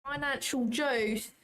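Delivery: slow Cockney "Financial juice"; Cockney accent, drawn out. Shown as a demonstration. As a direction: show off your London Cockney. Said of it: "I'm quite good at that accent".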